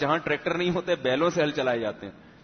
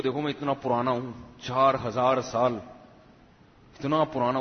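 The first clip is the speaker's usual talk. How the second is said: a hint of a smug ram bragging its age; boastful ram; 2 semitones lower than usual. Ram brags to camel and bull, mildly smug.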